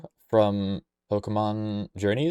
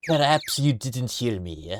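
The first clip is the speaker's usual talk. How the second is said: slow, drawn-out character voice; a try at a haughty game character's voice; trial character voice; 3 semitones higher, slower than usual. Acted. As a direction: draw it out slowly, putting on a voice. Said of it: "That, that voice sucks".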